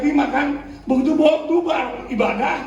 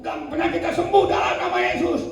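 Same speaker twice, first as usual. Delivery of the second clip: fervent prayer; 5 semitones higher than usual. Acted. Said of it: "Ibu Nina".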